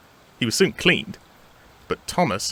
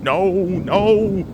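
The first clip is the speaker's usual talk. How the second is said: high, loud, drawn-out cry; mock-frightened refusal; 9 semitones higher, 6 dB louder than usual. Toby answering Percy through the doors, mock fright. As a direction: refuse the ghost in theatrical alarm.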